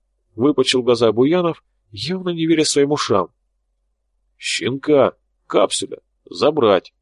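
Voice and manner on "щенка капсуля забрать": flat robot monotone; talking doll monotone. Acted. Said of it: "монотонным голосом робота сказал Тополь".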